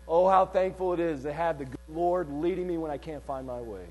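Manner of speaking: soft, low, heartfelt aside; hushed, sincere thanks after the preaching; tender thankfulness. Real, not acted. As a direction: drop right down into grateful testimony. Softened personal thanks amid preaching.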